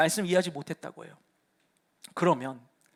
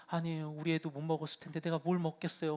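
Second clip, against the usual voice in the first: imitating Mary; 5 semitones lower, 13 dB quieter than usual. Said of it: "이러면은".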